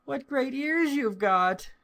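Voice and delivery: put-on very high, wondering child's voice; little girl's voice. A narrator's reading. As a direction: marvel like a small girl. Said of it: "said the little girl".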